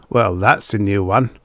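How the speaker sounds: cynical. Acted. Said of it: "with a cynical smile".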